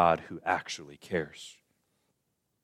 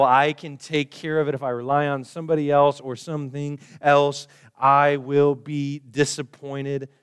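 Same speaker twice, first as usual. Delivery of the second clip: higher and louder, cocky and sure; proud self-reliance; 6 semitones higher, 7 dB louder than usual. Retold or imitated. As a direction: boast that you need nobody. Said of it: "We start to think".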